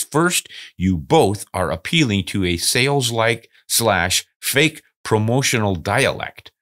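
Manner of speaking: slowed down, word by word; slow careful reread. Shown as a demonstration. Host rereads the critic's line to listeners, slowly. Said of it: "He says".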